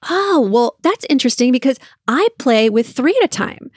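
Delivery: feigned casual interest, slightly lifted; playful one-upping. Pretend. Mom answering daughter's Connect Four cheating, playful one-upping. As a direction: play along with mock surprise.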